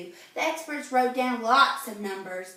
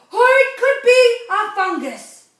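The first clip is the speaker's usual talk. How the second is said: eager expert guess; 9 semitones higher, 12 dB louder than usual. Acted. Expert doctor adds a guess.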